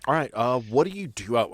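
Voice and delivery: normal talking voice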